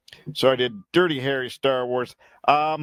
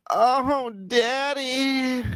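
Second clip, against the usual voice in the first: high, breathy swoon; mock excited; 12 semitones higher, much slower than usual. Mock excited text reaction.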